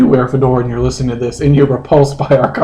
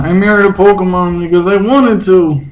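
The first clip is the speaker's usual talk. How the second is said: a light put-on voice, a touch higher; Justin audition voice; 4 semitones higher than usual. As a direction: try out a dorky character voice. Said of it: "let's audition".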